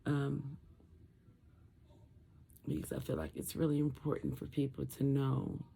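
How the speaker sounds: garbled, muffled post-surgery speech. Real, not acted. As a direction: talk through a swollen throat, muffled. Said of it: "feels like I'm talking garbled".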